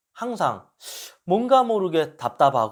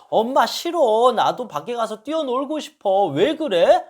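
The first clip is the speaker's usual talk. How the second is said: put-on higher, whining little boy; whiny child; 6 semitones higher, 3 dB louder than usual. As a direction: sulk and protest like a small kid. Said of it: "막 그런 식으로 막 짜증내니까". (짜증내는 아이 목소리)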